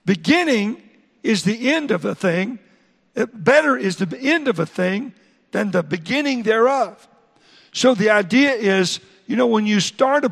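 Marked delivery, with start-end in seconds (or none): 0.1-7.1 scripture reading. Shown as a demonstration. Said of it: "Look at verse eight".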